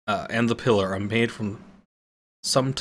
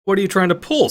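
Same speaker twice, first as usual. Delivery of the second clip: loud, high indignant shout; angry scream; 9 semitones higher, 6 dB louder, faster than usual. Acted. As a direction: hurl it at the old man. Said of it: "screams Lydia".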